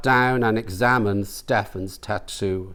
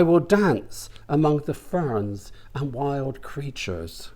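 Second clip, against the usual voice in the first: higher, dreamy woman's voice; dreamy older woman; 4 semitones higher than usual. Acted. Florence marvels at the tattoo, dreamy high voice. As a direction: get lost in the picture.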